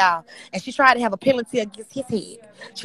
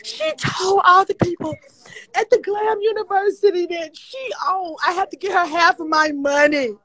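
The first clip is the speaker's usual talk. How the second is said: high wailing sobs, slow and louder; crying breakdown; 7 semitones higher, 4 dB louder than usual. Real, not acted. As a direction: wail through the tears, dragging the words. Breaking down over stolen name.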